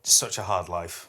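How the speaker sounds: sarcastic whisper; whispered teasing to a co-host; mock sympathy. Real, not acted. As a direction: whisper it with fake pity.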